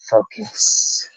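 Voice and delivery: a high, breathy whispered word. Real, not acted. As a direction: hush yourself to focus. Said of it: "self-directed whisper".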